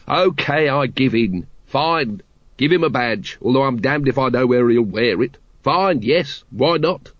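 mildly fed-up surrender; exasperated captain. Acted. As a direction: give in with a touch of exasperation. Voices exasperated Vimes.

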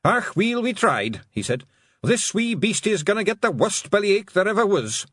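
grim cheerful battle talk; defiant pixie. Acted. Pixie draws sword.

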